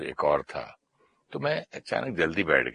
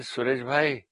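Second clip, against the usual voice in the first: higher, surprised questioning voice; a hint of surprise; neighbour asking; 4 semitones higher than usual. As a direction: raise the pitch as a curious neighbour. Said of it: "बोले".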